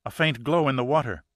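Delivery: excited. Acted. She insists she sees light.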